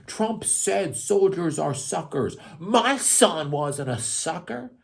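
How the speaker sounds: sarcastic imitation of the president, slow and high; mocking Biden. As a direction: lampoon him, drawn out. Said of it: "He was like".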